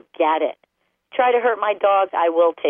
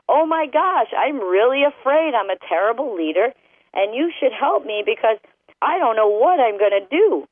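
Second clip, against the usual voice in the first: high mock panic, hammed-up fear; hammed-up panicky owner; mock scared owner; 4 semitones higher than usual. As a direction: whine it like a frightened, helpless leader. Owner voiced as afraid dog's view.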